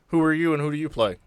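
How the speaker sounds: normal talking voice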